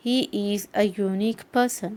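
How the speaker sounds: very slow, each word spelled out for learners; slow example sentence. Shown as a demonstration. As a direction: read it out word by word like a teacher. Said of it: "वैसे ही". (धीमा उदाहरण वाक्य, हर शब्द अलग)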